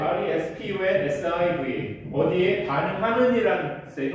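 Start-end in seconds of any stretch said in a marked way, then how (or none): 0.0-2.1 responsive spelt slowly letter by letter; slow spelling. Shown as a demonstration. Teacher spells responsive for students, slow dictation. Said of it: "responsive 하면 무슨 뜻이에요?".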